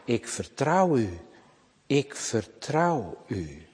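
David calmly surrendering to God; quiet trust. Retold or imitated. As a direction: say it gently, settled. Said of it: "dat David zegt".

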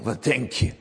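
usual speaking voice

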